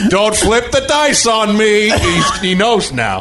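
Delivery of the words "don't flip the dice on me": slow, higher mock Watto voice; lightly voiced junk dealer; Watto catchphrase. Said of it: "That's just catchphrase".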